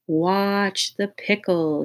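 slow, soothing hypnotist; calm hypnotist voice; warm and soothing. Acted. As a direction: lull him gently. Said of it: "His voice was warm and soothing".

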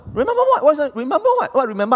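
very high, loud call for a response; calling out to the crowd. Acted. Preacher prompts the congregation to answer, high and excited. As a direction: fire the question at the congregation.

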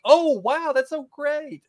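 mock excited squeal; high gushing Rebecca. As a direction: gush it up high and loud. Quoting Rebecca.

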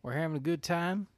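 put-on Southern accent. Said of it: "we can do these accents".

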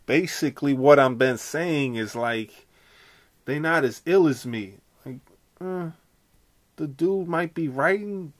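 a shaky attempt at a Philly rapper; impression of a rapper. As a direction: try on the rapper's swagger. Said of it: "Am I doing it? I don't even think I'm doing it right".

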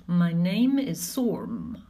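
slow, breathy gremlin whisper. Acted. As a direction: hiss the name slowly like a gremlin. Gremlin introduces himself, whispered.

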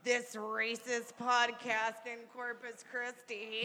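news headline. Retold or imitated. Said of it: "they're gonna be like".

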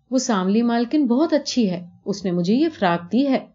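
put-on a small girl explaining what she saw; little girl.

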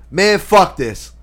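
loud, high, drawn-out exasperation; loud fed-up outburst. Retold or imitated. Aunt giving up on cutting her veal, loud fed-up outburst. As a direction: act out an aunt cursing loudly. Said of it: "like, loud as shit".

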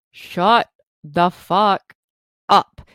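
very slow, drawn-out irritated thought; slow inner snarl. Retold or imitated. Mom silently fuming at her teasing son, slow and irritated. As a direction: drag out each word in silent fury.

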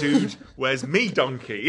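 slow Geordie twang with a laugh; Geordie accent. Retold or imitated. Quiz host reading out the typed film title, bit of Geordie. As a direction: say it slowly in a jokey Geordie accent. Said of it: "You went a bit Geordie".

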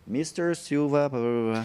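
slow, drawn-out call over the speaker; lightly voiced airport announcer; airport announcement. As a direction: mimic a slow gate announcement. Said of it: "eu escutei".

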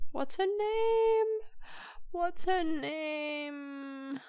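high, slow drawn-out whine of frustration; whiny frustration. Real, not acted. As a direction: stretch it out like a pleading moan, stuck on the name. Struggling to recall a name.

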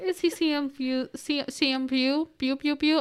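talking through a face mask; mumbled behind a mask; muffled by mask. Real, not acted. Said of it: "I can't talk with this mask on".

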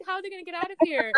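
anxious excitement. Retold or imitated. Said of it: "I was like".

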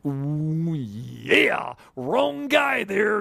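raspy wrestler growl with a drawn-out yeah; slow wrestling-announcer shout; wrestling promo. Retold or imitated. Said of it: "it's a wrestling voice".

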